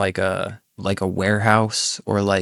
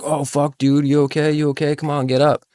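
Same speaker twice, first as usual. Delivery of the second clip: higher, urgent worried friend; 6 semitones higher than usual. Retold or imitated. Friend jumps down, asking if he is okay. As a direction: rush to check he's alright. Friend panicking over fallen teller.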